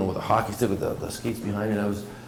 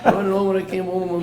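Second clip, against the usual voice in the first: laughing; 10 semitones higher, 4 dB louder than usual. Real, not acted. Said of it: "but I was laughing".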